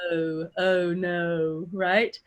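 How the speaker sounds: slow British RP with rounded O; measured general RP British accent. Shown as a demonstration. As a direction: glide "oh" from uh, lips rounded, RP. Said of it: "make it more R P".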